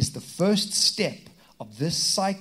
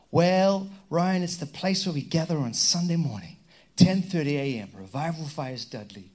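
lightly put-on Southern American voice; Southern American accent. Churchgoer explaining church to the pastor, light Southern American accent. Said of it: "I turn Southern American every time".

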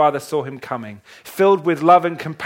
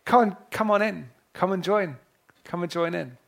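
inviting servant; 2 semitones higher than usual. Acted. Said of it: "The servant has said".

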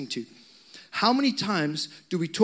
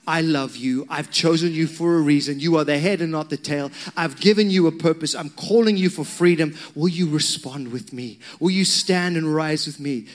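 raised, firm declaration; the Father's shout; 4 dB louder than usual. Acted. The Father calling to your heart, mildly shouted declaration. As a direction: proclaim it with urgent conviction. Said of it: "it's shouting this".

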